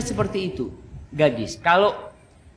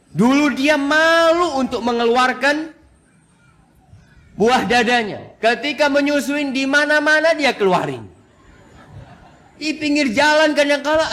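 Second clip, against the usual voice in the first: laughing and raised higher while telling it; 8 semitones higher, 4 dB louder than usual. Real, not acted. Preacher laughing to the congregation while telling it. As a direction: chuckle through the story, voice up and louder.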